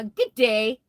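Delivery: badly faked Australian accent on a halting hello; horrible Australian accent. Streamer greets a viewer from down under, bad Australian accent. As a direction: attempt a clumsy Australian greeting. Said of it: "That's a horrible Australian accent".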